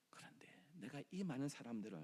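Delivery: breathy, tender whisper. Acted. God whispers to Jonah about the children. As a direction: hush it like a secret.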